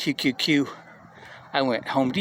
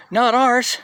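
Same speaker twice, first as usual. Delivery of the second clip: higher and louder, cocky; smug brag; 9 semitones higher, 5 dB louder than usual. Retold or imitated. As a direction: knock it back with a swagger. Young guy bragging, retold.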